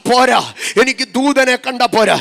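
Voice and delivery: loud, yearning cry, slowing on the English lines; impassioned plea. Acted. Mary pleading to see her Lord, preached loudly.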